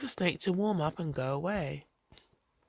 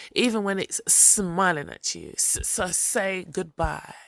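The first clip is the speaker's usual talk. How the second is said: slow snake voice. Acted. Snake lectures Possum slowly.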